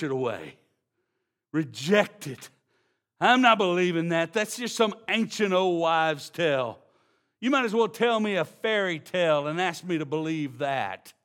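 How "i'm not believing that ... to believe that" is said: mock dismissive retort, a bit louder; sneering doubter voiced from the pulpit; scoffing unbeliever. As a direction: brush it off like a skeptic. Voicing a scoffer rejecting gospel.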